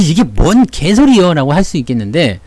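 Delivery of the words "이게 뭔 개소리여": slow, drawn-out scoffing disbelief; a viewer sneering at the claim; mock scoffing viewer. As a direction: play a skeptic calling it nonsense. Imagined viewer objecting.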